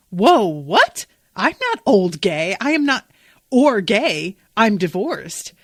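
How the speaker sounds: hammed-up offended squawk; flustered protest.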